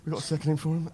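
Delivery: panicked aside. Retold or imitated.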